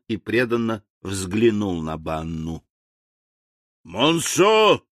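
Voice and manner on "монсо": higher, moderately raised military bellow; roared summons. A narrator's reading. General summons his colonel, roaring. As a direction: roar the name like a general. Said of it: "рявкнул генерал во всю глотку".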